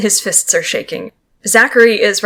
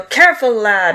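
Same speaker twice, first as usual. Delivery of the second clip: midshipman's yell; 2 semitones higher than usual. Acted. Midshipman warning a lad on deck, lightly acted yell. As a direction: call out a warning. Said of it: "you hear the midshipman yell".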